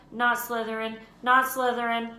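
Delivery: a touch of urgent pleading on NOT, in Harry's voice. Acted. Harry silently begging the hat not to choose Slytherin, mildly urgent. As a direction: beg silently, pressing the word not. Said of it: "Harry gripped the edges of the stool and thought".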